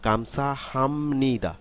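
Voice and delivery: "গামছা হামনিদা" slowly, as one connected phrase; careful model of "গামছা হামনিদা", syllables linked; joined-up pronunciation. Shown as a demonstration. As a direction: stretch "হামনিদা" a little, with m gliding into n. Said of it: "একসাথে উচ্চারণ করব".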